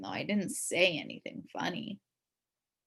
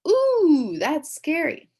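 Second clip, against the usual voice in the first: mock scared; 9 semitones higher, 10 dB louder, much slower than usual. Teacher mock-scared at costume.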